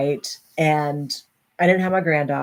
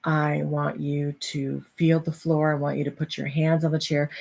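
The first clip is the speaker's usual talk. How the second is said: calm coaching; 3 semitones lower, 4 dB quieter than usual. Retold or imitated. Daughter talking anxious mom through grounding, calm coaching. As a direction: talk someone down gently and steadily.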